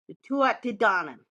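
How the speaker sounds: careful Irish pronunciation of Tuatha Dé Danann; sounding out Tuatha Dé Danann with pride; Gaelic name. Real, not acted. Host showing off her Gaelic name pronunciation. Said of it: "I'm saying that so good".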